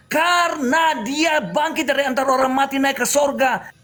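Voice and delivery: slow, forceful preaching shout. Real, not acted. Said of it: "Woi, bisa ke kau slow?". (berkhotbah sambil berteriak)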